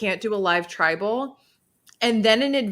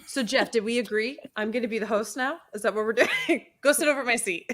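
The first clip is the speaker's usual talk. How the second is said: laughing mock host takeover. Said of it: "and then when I'm done".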